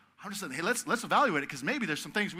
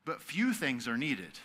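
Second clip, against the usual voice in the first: gentle and slow; 3 semitones lower, slower than usual. Retold or imitated. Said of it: "And he says this".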